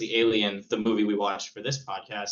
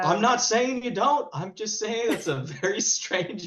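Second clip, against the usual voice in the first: teasing; 9 semitones higher than usual. Real, not acted. Teasing friend's odd worldview.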